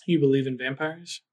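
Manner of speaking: put-on understated stranger with a light Mediterranean accent; slight Mediterranean accent. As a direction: answer with a hint of Mediterranean accent. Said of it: "Mediterranean accent".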